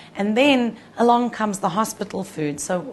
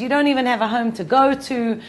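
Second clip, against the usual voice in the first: louder, higher snapping comeback; sharp retort; 4 semitones higher, 7 dB louder than usual. Retold or imitated. Wife snapping back at her complaining husband, raised voice. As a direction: throw it back at him, exasperated.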